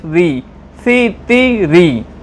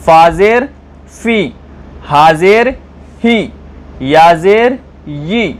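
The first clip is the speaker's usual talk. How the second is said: steady chant of each letter with zer; recitation drill. Acted. Teacher reciting the alphabet for students, steady drill. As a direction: recite each syllable clearly in turn.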